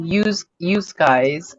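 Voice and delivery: slow, soft Pennsylvania Yous guys; Pennsylvania accent. Retold or imitated. Wife imitating the Pennsylvania Yous guys, slowly. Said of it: "a big thing in P A is also to say".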